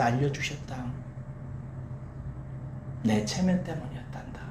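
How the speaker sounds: hushed confession, fading almost to a whisper; acted apology. Mother apologises to her daughter, soft acted apology. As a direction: apologise softly, with pauses between admissions. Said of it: "딸에게 사과했대요".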